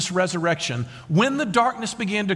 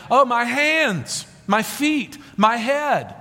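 drawn-out, raised wail, mildly hammed-up; mock cry of pain; 6 semitones higher, 4 dB louder, much slower than usual. Preacher voices what Jesus is not saying, mock anguish. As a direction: lament each hurt in a higher, imitating voice. Acted complaint from the cross.

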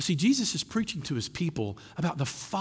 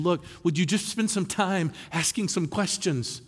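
Jesus' invitation; 4 semitones higher than usual. Retold or imitated. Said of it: "Jesus is coming and saying".

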